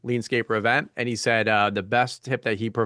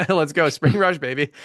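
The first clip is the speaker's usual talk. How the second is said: louder, higher rallying cheer; pumped up; 4 semitones higher, 4 dB louder than usual. Real, not acted. Host rallying everyone for spring rush, pumped up. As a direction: shake it off and hype the room. Host rallies himself after emotional moment.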